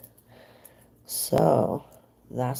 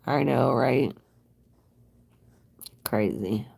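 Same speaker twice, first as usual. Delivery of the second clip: whispered aside. Real, not acted.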